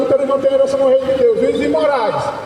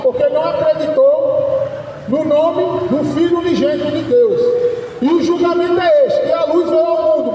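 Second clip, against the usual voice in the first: declaimed Bible verse, pitched a little up; proclaiming scripture in measured phrases; scripture reading. Acted. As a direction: read the verse out to a crowd. Reads scripture aloud to listeners.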